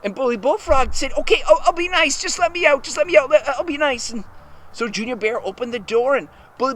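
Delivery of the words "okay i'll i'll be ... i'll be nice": higher-pitched, hurried begging; urgent pleading. Acted. Bully Bullfrog begs from the locked shed, urgent pleading. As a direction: plead to be let out, voice raised in pitch.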